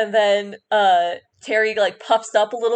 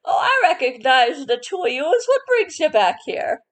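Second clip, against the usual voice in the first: a hint of an old lady, rising on the question; a mild old-woman lilt; lightly voiced old woman; 5 semitones higher than usual. Old shopkeeper welcomes the party back, lightly voiced. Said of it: "the voice of the old woman".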